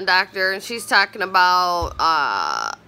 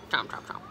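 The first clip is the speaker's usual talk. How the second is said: unvoiced chomp sounds; whispered chomping; 11 dB quieter, faster than usual. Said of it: "Chomping on his popcorn".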